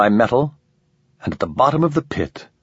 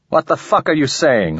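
angry; 5 semitones higher than usual. Acted. Ramon confronts the alien.

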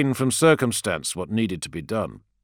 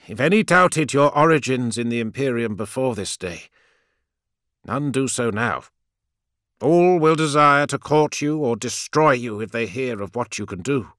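put-on higher, louder fervent old priest; zealous priest; 4 semitones higher, 4 dB louder than usual. A narrator's reading. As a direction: lecture with cold zeal.

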